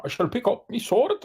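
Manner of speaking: a lightly voiced noble knight; heroic knight voice. In-character heroic vow.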